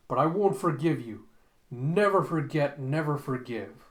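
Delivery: loud, impassioned declaration; anguished vow. Acted. Zapan vows to dead Sarah, loud and impassioned. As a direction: cry it out, drawing out each vow.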